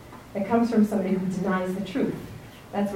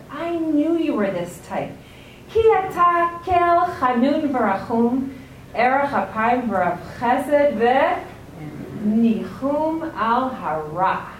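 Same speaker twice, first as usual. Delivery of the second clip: angry quote; 3 semitones higher, slower than usual. Retold or imitated. Yonah hurls the Yom Kippur verse at God in anger. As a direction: throw God's own words back in anger. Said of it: "He's so angry".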